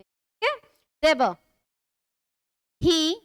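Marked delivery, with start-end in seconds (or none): 1.0-1.4 "ज़ेबर" alone, opening on a z sound; pronunciation demo. Shown as a demonstration. Teacher repeats the word for students, "ज़ेबर" starting with z. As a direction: model "ज़ेबर" as a single word with initial z. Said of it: "जे से शुरू है लेकिन इसे ज़ेबर बोलते".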